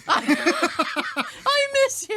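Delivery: mock tender voice. Voicing the package lovingly.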